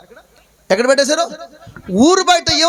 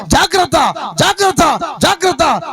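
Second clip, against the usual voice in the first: shouted warning. Acted. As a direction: warn her off like a village crier. Villagers warn the outcast woman.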